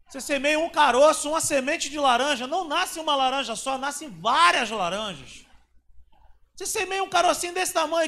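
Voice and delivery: loud, high preaching, stretching the key words; the pastor preaches to the congregation, loud and high; full-force preaching. Acted. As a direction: hammer the seed lesson home at full volume. Preaching the seed lesson.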